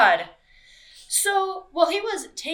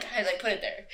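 mock killer confession through real laughter; laughing mock confession; 4 dB quieter than usual. Host imitating the killer husband while laughing. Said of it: "He was like".

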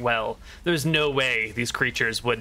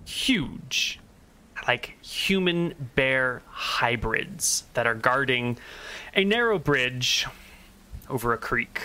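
slow, measured story narration; drawn-out recap for the listeners; game master's scene setting. Acted. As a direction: set the scene slowly, with weighted pauses.

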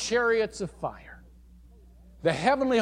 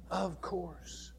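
"Of course" repeated much softer; soft echo; 12 dB quieter than usual. Shown as a demonstration. Preacher echoing his own answer, quiet "Of course". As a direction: let "Of course" fall away quietly.

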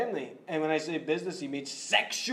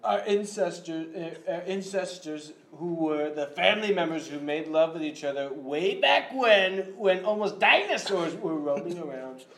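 Trump impression. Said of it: "President Trump here".

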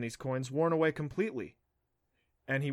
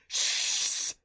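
quick urgent hushing; sharp shush. A narrator's reading. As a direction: hush him fast. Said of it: "she yelped".

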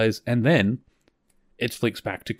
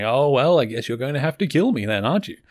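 joking sarcasm, pitch lifting on the closing question; Kor, sarcastic; 4 semitones higher than usual. Retold or imitated. Captive commander teasing his captors about killing him, sarcastic. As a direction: toss it off with mock resignation. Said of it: "he's being sarcastic".

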